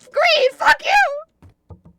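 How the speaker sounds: yelled insult; shouting. Acted. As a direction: shout it at him. Yelling at another player.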